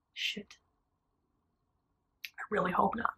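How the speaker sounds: near-whispered, voiceless reaction; hushed dread. Retold or imitated. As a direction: mouth it under your breath, retelling bad news. Reacts to bad news, under breath.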